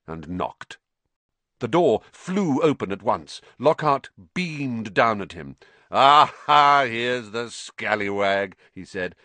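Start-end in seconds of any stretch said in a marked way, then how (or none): 5.9-8.6 a vain celebrity wizard gushing a welcome; Lockhart's voice. Acted.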